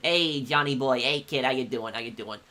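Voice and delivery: light New York gangster accent, easy and familiar; lighter New York accent. Shown as a demonstration. Streamer showing chat the lighter kind of New York accent. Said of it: "there's the lighter accent".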